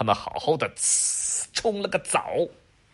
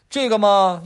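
high, drawn-out bargaining hum; a child stalling for a deal; sly kid; 10 semitones higher, 9 dB louder than usual. Acted. Adam haggling with dad through the door, sly kid voice. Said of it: "亚当回答".

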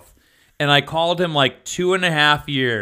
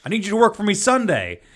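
coworker impression; 5 semitones higher than usual. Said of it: "use the other person's voice".

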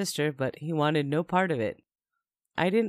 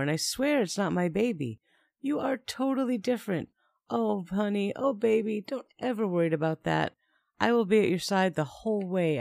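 lightly voiced boyfriend, higher, coaxing; a hint of a smooth-talking man calming his girlfriend; soothing boyfriend; 4 semitones higher than usual. Narrator voicing Mike's promises.

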